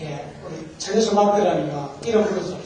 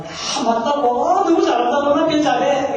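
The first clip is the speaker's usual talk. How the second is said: higher, gushing mock praise; delighted praise; 5 semitones higher than usual. Wife praises husband for answering right, with acted delight. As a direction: imitate a wife cheering the answer.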